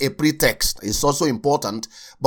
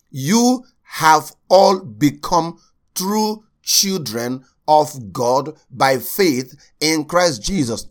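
slow scripture reading; slower than usual. Acted. Reads scripture verse aloud.

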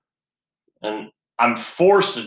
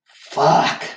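higher, sharper outburst; frustrated curse; 5 semitones higher, 4 dB louder than usual. Retold or imitated. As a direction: repeat the swear with more force. Repeats the curse, louder.

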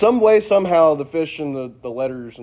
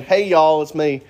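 casual greeting; 2 semitones higher, 4 dB louder than usual. Retold or imitated. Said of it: "Jesus is not saying".

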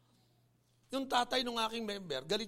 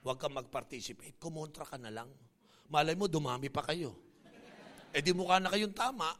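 tempting Satan; 6 semitones lower than usual. Acted. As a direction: coax like a sneaky devil. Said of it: "pipilitin nga ni Satanas".

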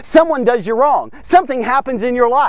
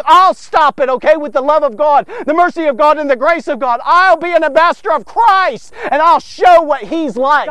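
loud, firm vow of resolve; bold declaration; 2 semitones higher, 3 dB louder than usual. Retold or imitated. Believer vowing out loud to stop the dominoes, firm and loud. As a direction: declare it like someone standing in the gap. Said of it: "standing in the gap and saying".

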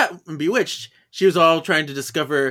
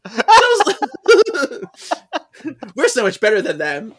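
mock busybody; 8 semitones higher, 5 dB louder than usual. Busybody neighbor voiced, laughing.

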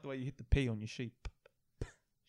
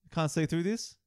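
raised, disbelieving voice; louder incredulous; 5 semitones higher, 7 dB louder than usual. Acted. Repeats louder in mock outrage.

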